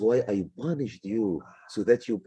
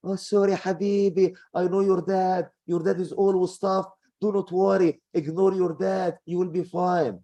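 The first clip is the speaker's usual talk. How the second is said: higher, gushing mother pitying her son; a doting mom who blames the dad, voiced higher; coddling idiot mom; 6 semitones higher than usual. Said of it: "you are gonna be an idiot mom".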